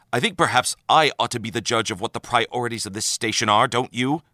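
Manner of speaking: a mild clipped rebuke; snapped. Acted. Commander rebuking O'Brien over the Admiral, mild snap. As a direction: put the chief in his place, understated. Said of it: "snapped the man".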